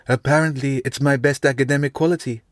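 dryly. Acted. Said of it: "she said dryly".

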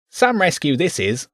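high, squeaky rat voice. Acted. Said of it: "the rat said".

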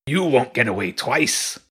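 lightly voiced cocky rat; a hint of gloating taunt; rat leader taunt. A narrator's reading.

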